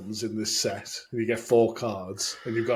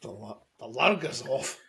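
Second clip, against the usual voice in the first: put-on hesitant go at a Scottish accent; attempted Scottish accent; 4 dB quieter than usual. Co-host copies his mate's line, hesitant Scottish accent. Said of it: "in a Scottish accent".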